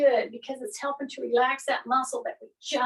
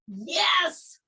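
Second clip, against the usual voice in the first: cheering; 4 semitones higher than usual. Real, not acted. Coach cheering the class on.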